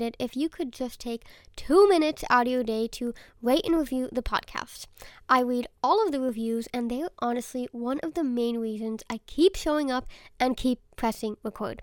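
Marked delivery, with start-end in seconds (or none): 5.3-11.8 stuffy nose, blocked nasal voice; talking through a head cold; congested nasal voice. Real, not acted. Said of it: "my throat and congested nasal voice".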